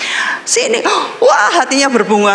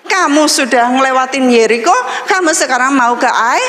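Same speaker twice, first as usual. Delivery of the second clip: God reminding; 4 semitones higher than usual. Retold or imitated. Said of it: "Tuhan bilang".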